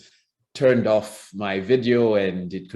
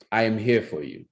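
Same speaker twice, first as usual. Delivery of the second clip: intimidating. Shown as a demonstration. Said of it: "if you found me intimidating and I walked into your room speaking like that".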